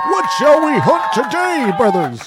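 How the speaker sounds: high, loud battle cry; booming warrior shout. Pretend. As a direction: bellow it like a warchief.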